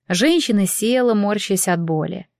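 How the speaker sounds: ordinary delivery, nothing marked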